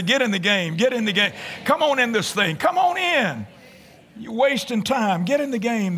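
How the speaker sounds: coaxing someone to join in, upbeat; rallying invitation to the congregation; urging call. Shown as a demonstration. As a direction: call them in like a coach. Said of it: "Look at somebody and say".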